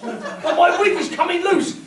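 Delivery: William Shatner style. Acted. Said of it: "William Shatner style".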